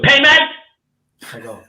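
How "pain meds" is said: mock doctor baffled and high; high baffled question. Doctor baffled at nurse, high confused question. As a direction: squeak it out confused. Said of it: "She goes".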